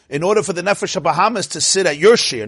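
"your" pressed against "my"; stress on your. Shown as a demonstration. Rabbi stressing whose shiur it is, your pressed. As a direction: lean on the word "your" in "at your shiur". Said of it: "not my shiur".

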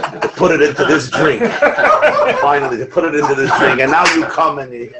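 mock despair dissolving into laughter; laughing lament. Rabbi voicing the drunk Jew, laughing through the punchline. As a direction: tell the sad tale while cracking up.

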